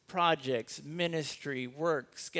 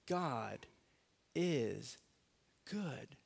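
hushed reverent; 8 dB quieter, much slower than usual. Real, not acted. Hushed reverent repeat, very soft.

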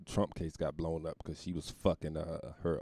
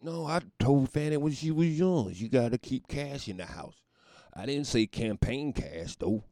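higher-pitched defensive dad voice; old father excusing; 7 semitones higher, 4 dB louder than usual. Acted. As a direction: play the father making excuses for his daughter. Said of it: "Had her poor old father in there trying to excuse her behavior".

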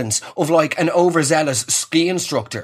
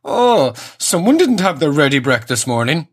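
sing-song condescending quip; smug waiter. Retold or imitated. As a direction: needle the customer like a smug waiter. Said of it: "And he goes".

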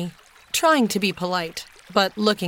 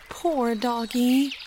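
soothing murmur; 4 semitones higher, much slower than usual. A narrator's reading. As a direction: murmur gently, slowly, like comforting an animal. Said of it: "murmured Jess soothingly".

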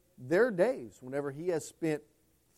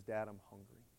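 put-on soft, hushed child asking; little boy's plea; 6 semitones lower, 15 dB quieter than usual. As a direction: say it quietly like a tearful boy. Son asks father, retold.

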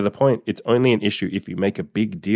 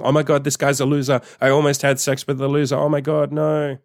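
higher, hammed-up mock horror of a girl; mock screaming girl; 5 semitones higher than usual. Coach mimics a girl fleeing a loser, in mock horror. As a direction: imitate her running out screaming, half-joking. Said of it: "She gonna run out screaming".

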